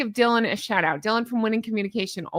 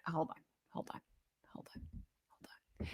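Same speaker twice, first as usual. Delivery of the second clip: fading to a whisper; 7 semitones lower, 23 dB quieter, faster than usual. Real, not acted. Pausing her rant, trailing into a whisper. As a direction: hold on, quieter each time down to a whisper.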